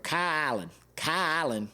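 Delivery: "Kyle Allen" run together as one word, Kalen; one-word name. Shown as a demonstration. Showing fans how he says the quarterback's name, one word. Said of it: "I just make it one word".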